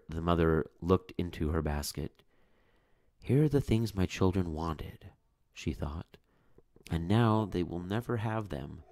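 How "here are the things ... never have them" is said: despairing. Acted. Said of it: "in despair".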